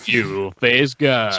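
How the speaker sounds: put-on very slow slurred drunk voice; drunk guy voice. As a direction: drag it out like a drunk. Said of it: "shitty drunk guy voice".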